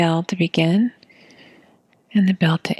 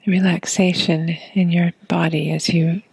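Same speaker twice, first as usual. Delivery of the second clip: calm meditation guide, long silences between phrases; unhurried breath-awareness guidance; guided meditation. Acted. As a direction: guide them gently into the breath, leaving long pauses.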